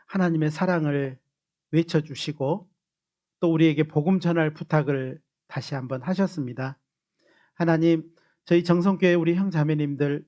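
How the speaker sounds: steady, humble prayer voice; earnest prayer. Real, not acted. Pastor leads the closing prayer for the church, earnest and humble. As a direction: pray it sincerely for the church.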